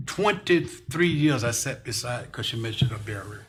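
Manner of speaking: slow, emotional remembrance; grieving a longtime colleague, slowly; real grief. Real, not acted. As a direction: drag the words out, overcome by loss. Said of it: "Excuse me for getting so emotional".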